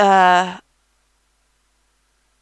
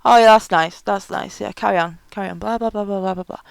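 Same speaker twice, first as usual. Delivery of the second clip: feigned interest. Acted. Acting out someone bullshitting a fellow patient, feigned interest. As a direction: go through the motions of listening, then tail off. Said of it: "if you're just bullshitting them like that".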